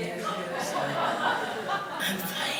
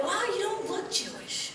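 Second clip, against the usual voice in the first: much higher, soft wide-eyed surprise; surprised West Coaster; 10 semitones higher, 6 dB quieter than usual. Retold or imitated. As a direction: sound naively amazed. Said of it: "people on the West Coast are like".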